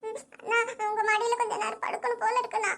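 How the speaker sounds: tearful, halting plea; sobbing. Acted. Sister asks to lie on brother's lap, sobbing. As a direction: ask through small sobs. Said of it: "புள்ள இப்படி தேம்பி தேம்பி அழுகுற".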